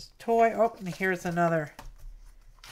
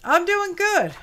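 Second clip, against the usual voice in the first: high, loud answer for the pet; 9 semitones higher, 6 dB louder than usual. Pretend. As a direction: answer as the little pet would.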